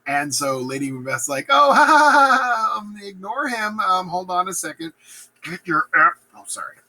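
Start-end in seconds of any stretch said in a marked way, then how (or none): 1.5-4.9 high forced laughter into hasty excuse; nervous fake laugh. Lady Macbeth covering for her husband, high nervous fake laugh. 5.4-6.2 a touch of loud wifely reproach; mock scolding. Lady Macbeth rebuking her panicking husband, mock scolding.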